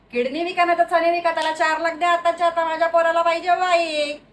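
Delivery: acted indignant mother insisting; demanding mother. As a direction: press the demand hard without letting up. Mother demands money from father.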